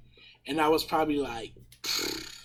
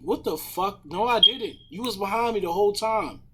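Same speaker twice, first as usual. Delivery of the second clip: higher-pitched defensive retort; indignant protest; 5 semitones higher, 3 dB louder than usual. Retold or imitated. Driver retelling his denial to the cop, indignant protest. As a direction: argue back, voice rising in disbelief.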